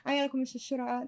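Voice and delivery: ordinary talk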